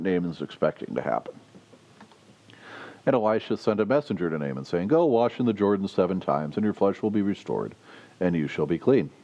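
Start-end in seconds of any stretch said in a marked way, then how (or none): 3.1-9.1 reads the Bible passage aloud to the congregation; measured, lightly lifted reading voice; scripture reading. Acted. Preacher reading the passage aloud to the congregation.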